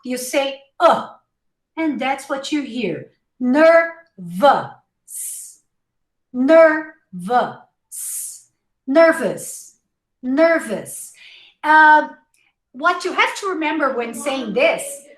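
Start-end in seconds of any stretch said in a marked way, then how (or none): 3.4-11.1 "Nervous" as ner-vus, first split, then joined; schwa ending. Shown as a demonstration. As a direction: say the ous of "Nervous" as uh-s. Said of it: "Remember the schwa?".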